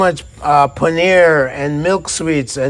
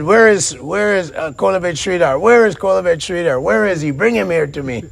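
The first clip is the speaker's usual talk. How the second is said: calling out; 3 semitones higher than usual. Acted. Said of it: "he was calling".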